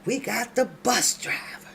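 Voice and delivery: put-on slurred drunk uncle voice; lightly voiced drunk, loose and sloppy; drunken Larry voice. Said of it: "in my drunken Larry voice".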